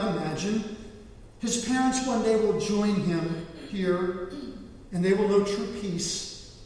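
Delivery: slow, measured divine pronouncement; lightly voiced God, solemn and deliberate; voice of the Lord. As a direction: declare it slowly as God's answer. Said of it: "he heard the voice of the Lord".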